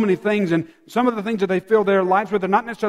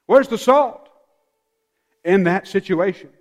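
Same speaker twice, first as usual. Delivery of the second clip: urgent challenge. Shown as a demonstration. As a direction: demand it of the congregation. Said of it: "Our first reaction should be".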